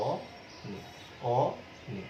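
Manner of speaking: অনেক said with an open ɔ, like "ɔnek", softly; teacher saying অনেক slowly with a clear open ɔ sound; open o demo. Shown as a demonstration. Teacher to students, showing the open vowel: অনেক with open ɔ. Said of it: "উচ্চারণটা খেয়াল করো".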